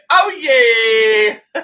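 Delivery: high whoop breaking into laughter; laughing cheer. Real, not acted. Gamer laughing as his team scores, high laughing whoop. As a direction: laugh out loud with joy.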